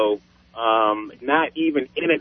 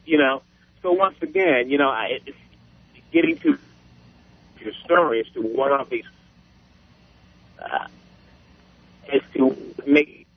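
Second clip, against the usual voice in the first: cell phone cutting out; garbled bad cell connection; breaking up space radio. Real, not acted. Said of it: "You started to break up there".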